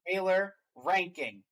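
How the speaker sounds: slow, dramatic ranking announcement; show announcer. Pretend. Host asks co-host for the last trailer ranking, announcer style. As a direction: draw out the big question like a host.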